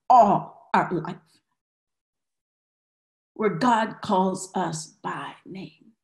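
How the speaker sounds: measured, low-pitched pastoral prayer; prayerful blessing. Real, not acted.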